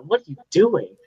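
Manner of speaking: swooping pitch on an imitated question; mock bafflement. Kid retelling older photographers' reaction, mock-baffled question. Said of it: "and they'll be like".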